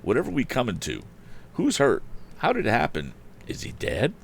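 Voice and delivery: high, fast fretful questions; flustered housekeeper. Acted. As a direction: fret like a nervous housekeeper.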